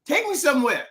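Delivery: high pleading questions, lightly acted; mock passengers begging to be taken somewhere; pleading riders. Riders begging Tyler to take them somewhere, mock pleading.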